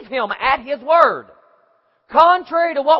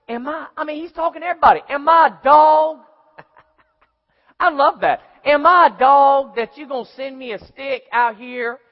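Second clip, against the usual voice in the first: taunting giant; 2 semitones higher, 4 dB louder than usual. Acted. Goliath taunting David.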